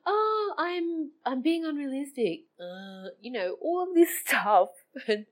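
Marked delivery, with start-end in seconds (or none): 0.1-2.5 mock teary wail. Mocking her own self-talk.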